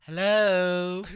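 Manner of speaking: loud, high playful hello; excited. Pretend. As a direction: sing out a bright hello. Playful exclamation.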